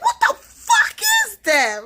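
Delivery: very high, slow, laughing shriek; panicked shout. Retold or imitated. Mom at the car window yelling at the creature, high laughing shriek. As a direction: scream it half laughing, half panicked. Eyes in woods, rolling window down.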